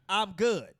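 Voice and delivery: flat, unconvincing reassurance; unconvincing I'm good. Retold or imitated. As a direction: say you're fine without meaning it. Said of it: "that doesn't sound very convincing".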